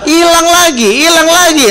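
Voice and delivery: high, loud mock shriek of a nagging mom; shrill complaint over the lost Tupperware; scolding mother. Mother scolding children about missing Tupperware, high loud mock.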